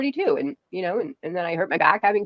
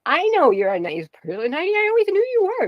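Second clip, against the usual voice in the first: tearful; 10 semitones higher than usual. Real, not acted. Tearful tender speech to host.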